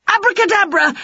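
high, loud spell chant; spell cast. A narrator's reading. Witch casting a spell on her pets, high and loud. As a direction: ring out the magic word.

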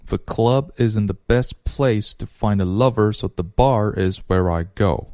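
small words "the", "to", "so" lightly reduced; 弱读示范. Shown as a demonstration. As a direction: clear teacher's model, weak forms kept short. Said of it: "你听熊叔来一遍". (the、to、so轻轻弱读)

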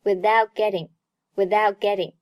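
"without getting" with the t of "without" not popped; unreleased t. Shown as a demonstration. Teacher shows 失去爆破, "without getting" with silent t. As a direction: hold the t, go straight into "getting". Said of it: "爆破音t失去爆破".

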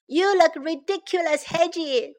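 lightly voiced scoffing pony; snorting pony. A narrator's reading. Pony mocks the hedgehog's hat, mildly scoffing. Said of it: "the pony snorted".

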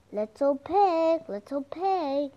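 slow, mildly growled wolf call; a hint of a growling wolf at the door. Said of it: "growled the wolf".

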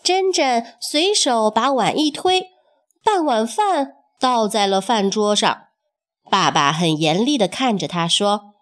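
measured, expressive storyteller delivery; storybook reading with lingering phrase endings; children's story narration. A narrator's reading. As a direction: tell it slowly to little listeners, phrase by phrase.

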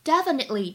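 "definitely" with the T barely sounded; barely released T. Shown as a demonstration. Teacher shows incomplete plosion, "definitely" with a faint T. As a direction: hold back the T in "definitely" before the "ly". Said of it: "有一个不完全失去爆破".

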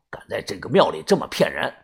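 a hint of a hushed warning; quiet aside. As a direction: murmur it just for your friend. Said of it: "小声的对我说".

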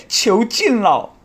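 slow, high drawn-out goal call; long goal yell. Pretend.

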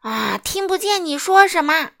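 loud, high bellow; shouting grocer. A narrator's reading. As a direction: bellow that you can't hear. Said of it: "杂货店老板大喊". (杂货店老板高声大喊)

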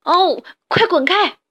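loud, high, slow wail; crying out. Acted. The crushed rabbit wails at the badger, crying. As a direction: cry out under the weight. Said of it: "哈布斯哭着说".

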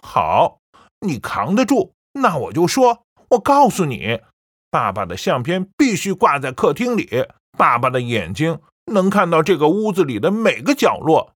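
firm and loud, a stern warning; loud declaration. A narrator's reading. Son warning his mother about father's photo, firm loud. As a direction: lay down the law to her. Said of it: "小宝大声说".

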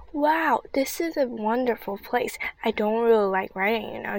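talking through chocolate; words round a mouthful; mouth full. Acted. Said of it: "with her mouth full of chocolate bar".

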